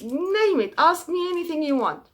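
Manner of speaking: high, pleading voice of a poor traveller; pleading poor man. Acted. Poor man eager to please.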